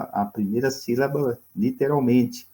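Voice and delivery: usual speaking voice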